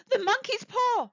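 high-pitched frantic exclamation; wild cry. A narrator's reading. Wife seized by an idea about the talisman, wild cry. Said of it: "she cried wildly".

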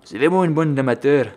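scornful comic Russian voice; Russian accent. Pretend. Gamer mocking the amateur gunners, put-on Russian accent. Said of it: "Je prends l'accent russe maintenant".

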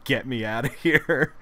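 half-hearted yell through a laugh; mock yell. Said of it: "is just yelling".

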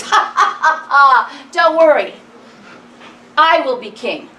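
boastful kid with mocking laugh; cocky boy laughing.

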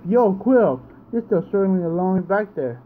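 lightly voiced cocky trainer; cocky rival. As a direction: tease the player like a smug kid rival. Voices the rival's taunting line.

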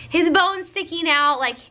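high, slow mock panic with a laugh; a light, laughing take on a freaked-out husband; imitating freaked-out husband. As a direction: play him losing it, half laughing. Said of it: "My husband's freaking out".

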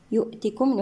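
"يؤتكم" with a distinct glottal stop; clear hamza. Shown as a demonstration. Tajweed teacher showing full hamza in "يؤتكم". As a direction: articulate the hamza fully in "يؤتكم". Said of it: "نحقق الهمزة".

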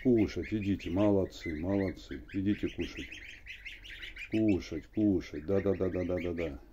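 coaxing call to feed; sing-song feeding call; calling geese to eat. Real, not acted. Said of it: "говорить с ними надо".

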